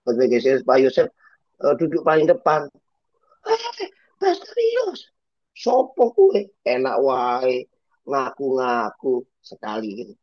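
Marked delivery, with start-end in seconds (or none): 3.5-6.5 very high, slow put-on voice calling out; a high squeaky fan hailing the pastor across the room; eager Javanese congregant. Congregant calls to Pastor Yos from the pews, squeaky and high.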